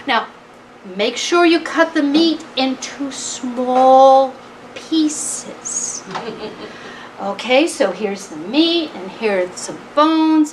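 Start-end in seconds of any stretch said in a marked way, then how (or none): 0.1-6.0 higher-pitched mouse giving orders; bossy mouse instructing. Acted. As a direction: supervise the job, drawing out the last words. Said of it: "giving instructions".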